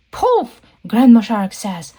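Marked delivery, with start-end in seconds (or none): 0.1-0.6 short, high-pitched magic word; spell exclamation. Acted. Grandma Shark brings back the fish's mommy, spell exclamation. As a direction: pop it out high, like casting a spell.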